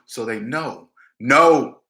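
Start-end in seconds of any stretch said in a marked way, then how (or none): 1.2-1.8 firm, louder flat refusal; powerful no. Shown as a demonstration. Coach showing a friend how to refuse: firm loud no. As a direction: shut the request down hard. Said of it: "You gotta say that powerful too".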